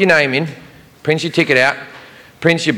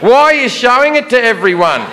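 higher, sugary-polite mock praise; higher sarcastically polite guard; polite sarcasm; 6 semitones higher than usual. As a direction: needle him with fake courtesy. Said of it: "very politely but extraordinarily sarcastically".

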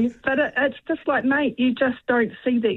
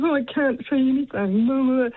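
lightly mocked complaining partner, pitched up; impersonating partner; 4 semitones higher than usual. Caller mimics her partner reacting to her, impersonating partner. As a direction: imitate a partner's grumble, a little higher. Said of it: "doing a wonderful impersonation of him too".

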